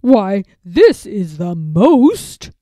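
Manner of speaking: slow breathless whisper; awed whisper. A narrator's reading. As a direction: hush it, stunned by the find. Lord finds telescope.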